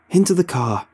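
loud, high bellow. A narrator's reading. Robbie bellowing at Casey to get in the car. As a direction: yell her out of her daze. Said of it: "Robbie bellows".

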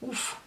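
a quiet, breathy sigh of relief; soft relieved puff. A narrator's reading. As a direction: let the breath out with a small "ouf". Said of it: "fit-elle en inspirant de larges bouffées d'air".

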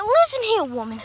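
mock scolding, pitch up and punchy at the start; playful retold telling-off; sassy comeback. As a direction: put Mimi in her place, half-joking. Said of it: "And I'm like".

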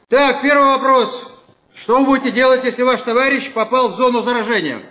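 usual speaking voice

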